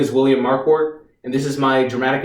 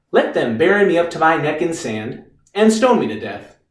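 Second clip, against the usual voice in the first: matter-of-fact lawyer repeating a client's speech; sceptical quoting back. Acted. Lawyer quotes Reeves's act back at him, sceptical and restrained. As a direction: repeat it back without the heroics.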